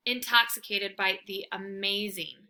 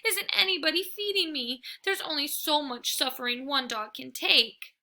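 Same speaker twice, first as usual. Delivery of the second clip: high, loud melodramatic moan; a dog moaning on its back for food; dramatic moaning; 8 semitones higher, 4 dB louder than usual. A narrator's reading. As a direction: ham up the suffering. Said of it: "roll onto my back and moan".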